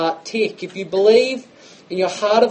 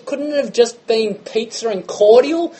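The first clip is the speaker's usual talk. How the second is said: put-on indignant older brother; 6 semitones higher than usual. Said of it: "He goes".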